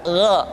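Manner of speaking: "gha" with open, unrounded lips; bouche ouverte. Shown as a demonstration. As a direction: say "gha" from the throat, mouth open. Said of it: "tapi terbuka".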